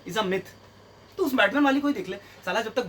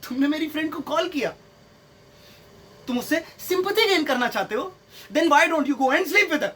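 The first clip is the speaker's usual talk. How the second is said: higher-pitched imitation, slowing at the end; mock accusing girlfriend; 4 semitones higher than usual. Girlfriend accusing him over calling her friend, mock accusing. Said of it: "तो क्या बोलेगी?".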